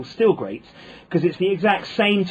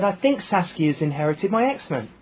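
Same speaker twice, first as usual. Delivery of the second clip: Essex repeat; 4 semitones higher than usual. Retold or imitated. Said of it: "And she said".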